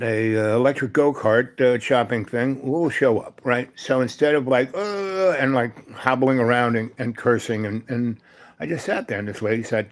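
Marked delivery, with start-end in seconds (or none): 4.7-5.3 higher, drawn-out "uhhh"; mock frustrated groan. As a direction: imitate a grumbling groan of effort. Imitated groan of hobbling frustration.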